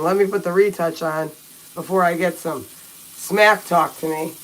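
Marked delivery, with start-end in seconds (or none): 1.7-4.3 slow, muffled by the toothbrush; while brushing teeth. Real, not acted. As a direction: say it mid-brush, mouth full. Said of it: "while I'm brushing my teeth".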